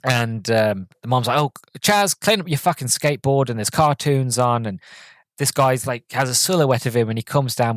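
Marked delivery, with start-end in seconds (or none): 1.4-3.5 mock mum nagging, starting high; imitated scolding mum. Mom to Chaz about his skateboard, imitated high-pitched scolding. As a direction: mimic a mother telling off her son.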